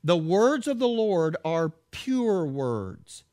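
slow, weighty read that leans on "words"; preacher stressing "words"; emphasis on words. Shown as a demonstration. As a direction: press down on "words" at the end, slowly. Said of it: "notice the emphasis".

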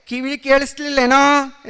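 schoolmaster's sharp rebuke; stern teacher demand. Acted. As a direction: scold him like a strict teacher. Teacher demands, raising cane.

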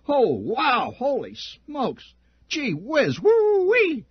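sickly sweet applause, way up high; fawning crowd. A narrator's reading. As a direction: ham up the toadying cheers. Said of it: "other sickening sounds".

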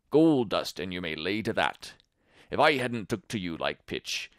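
put-on rough old seaman pleading; coaxing old pirate voice; old sailor. Silver pleads with Tom.

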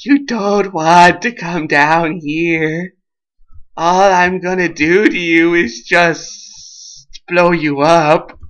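lightly voiced creeper, slow; a hint of slow, deliberate menace; creeper's threat. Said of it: "he's like".

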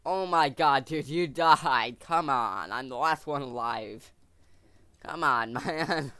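loud exasperated outburst; frustrated yelling. Real, not acted. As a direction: shout at the dead teammate. Teammate dies in game.

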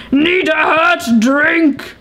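slow, put-on character voice, drawn out. Gamer voicing a villager, slow put-on voice. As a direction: stretch it into her new go-to voice. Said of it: "becoming my go-to voice".

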